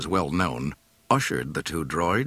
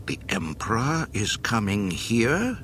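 alarmed commander; 5 semitones higher than usual. Acted. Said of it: "Jerjerod's pallor intensified".

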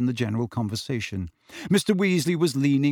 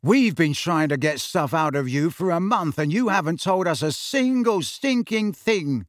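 indignant protest; 4 semitones higher than usual. Acted. Brother joins angry protest.

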